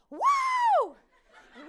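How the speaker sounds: mock cheer. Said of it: "she's like".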